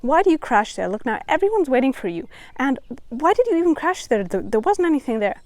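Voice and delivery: a light mock of a nagging critic; judging inner voice. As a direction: scold yourself, lightly voiced. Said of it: "starts telling you".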